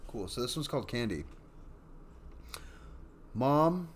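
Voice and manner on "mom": put-on little girl calling. A narrator's reading. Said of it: "said the little girl".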